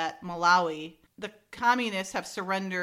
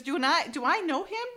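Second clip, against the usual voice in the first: high gossipy voice; 7 semitones higher than usual. Retold or imitated. Retelling the women's gossip.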